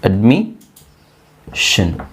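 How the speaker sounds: ಅಡ್ಮಿಷನ್ stretched out very slowly; teacher drawing out admission; slow model word. Shown as a demonstration. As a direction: lay out each sound of ಅಡ್ಮಿಷನ್ slowly. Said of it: "slow model pronunciation".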